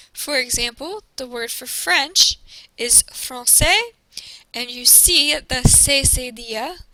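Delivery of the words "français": "français" with the ç said as S; soft C. Shown as a demonstration. Teacher giving the French word for French, ç as S. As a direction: say "français" slowly with an S sound in the middle. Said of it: "Notice that it sounds like an S".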